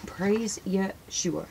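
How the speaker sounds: drawn-out, devout repeat; slow it right down, savouring the name; slow reverent praise. Real, not acted. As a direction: reverent and unhurried.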